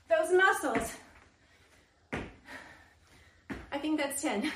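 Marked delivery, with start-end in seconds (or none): 2.1-4.6 laughing. Real, not acted. Laughs, counting while exercising.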